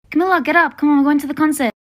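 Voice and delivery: calling out. Acted. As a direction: call her up from another room. Mom wakes sleeping daughter.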